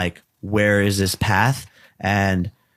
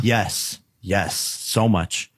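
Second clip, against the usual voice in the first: after crying; much slower than usual. Real, not acted. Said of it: "I'm getting, like, a little teary-eyed".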